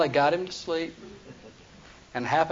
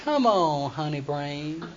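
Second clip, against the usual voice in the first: coaxing Delilah; 4 dB quieter, slower than usual. Retold or imitated. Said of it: "that's what she said".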